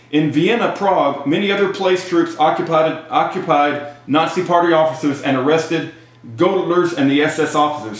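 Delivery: measured read-aloud of a history text. Real, not acted. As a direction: read it out phrase by phrase.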